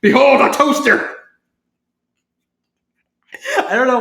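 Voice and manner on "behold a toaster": high, loud, drawn-out announcement; grand mock proclamation. Imagining Kanako trying to wow everyone, hammed-up proclamation. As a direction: proclaim it slowly to wow the crowd. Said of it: "trying to just wow everyone like".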